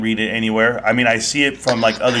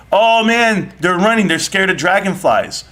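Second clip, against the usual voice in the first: put-on excited kid; 5 semitones higher than usual. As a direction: play the scared schoolkid, a bit hammed-up.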